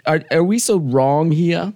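high and slow; sing-song mock innocence. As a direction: plead your innocence in a whiny tone. Playful self-pity.

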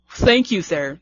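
fuller grown-up woman voice. Real, not acted. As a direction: say it in a mature woman's voice. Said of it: "There, there's my woman voice".

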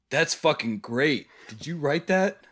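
be blown away by it; astonished. Retold or imitated. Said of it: "As if, like, in astonishment".

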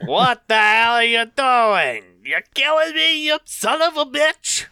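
panicked yell. Acted. Stabbed Sally yells at Tails in panic. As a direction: scream it at him while being stabbed.

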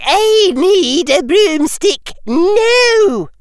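high, slow, loud demand; shouted. Acted. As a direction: call it across the field. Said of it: "Professor McGonagall shouted".

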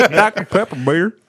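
loud, high-pitched delighted repeat; high, amused squeal. Real, not acted. Laughing repeat of the joke.

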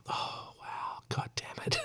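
breathy whispered groan of disbelief; exasperated whisper. Real, not acted. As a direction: whisper it in despair, under your breath. Exasperated at snake church deaths.

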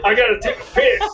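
lightly voiced blustery southern cartoon rooster. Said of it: "mine sounds like a cartoon character".

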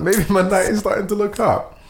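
retold hopeful thought; hopeful inner voice. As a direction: let hope creep in. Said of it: "I'm like".

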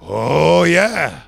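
slow, drawn-out mock sage; crazy-eyed Riverman. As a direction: imitate a crazy-eyed old mystic, stretching the words. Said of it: "those crazy eyes".

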